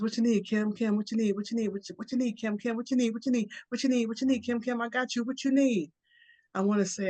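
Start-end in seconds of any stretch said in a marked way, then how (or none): 0.0-5.9 higher, eager squirrel firing questions. Acted. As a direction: chatter it out like a busy squirrel, higher. Squirrel pesters Kim with questions.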